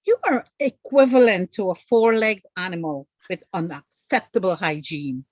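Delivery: lightly voiced prim proper English. Shown as a demonstration. The host's polite version, lightly prim English. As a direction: spell it out politely and formally. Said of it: "Marla would say".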